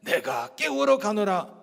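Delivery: slow, lightly solemn pronouncement; holy Jesus voice. Acted. Jesus going to wake Lazarus, lightly holy and solemn. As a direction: draw it out with gentle reverence. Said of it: "거룩하게".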